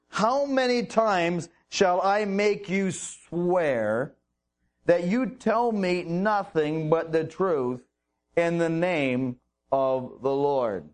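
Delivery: slow, weary demand for the truth; slow, tired exasperation; exasperated king. Acted. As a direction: drag it out like he's heard lies before. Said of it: "So clearly Ahab knew".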